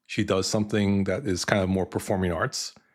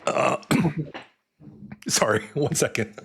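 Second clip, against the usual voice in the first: choking up; 5 semitones higher than usual. Real, not acted. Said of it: "I'm choking up".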